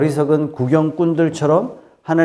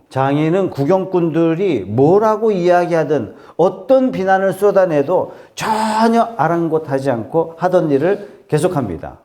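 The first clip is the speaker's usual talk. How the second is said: ordinary delivery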